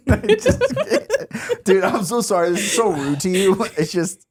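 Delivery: apologizing through giggles; high voice, fighting off laughter. Real, not acted. Host sorry for rude laughing at the story, giggly. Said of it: "I have the giggles".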